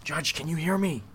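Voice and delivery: calling into the fog for the judge. Acted. Searching the foggy grounds, calling for the judge.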